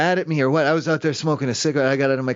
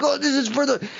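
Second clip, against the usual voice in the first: imitating the guy; 7 semitones higher than usual. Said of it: "he's like".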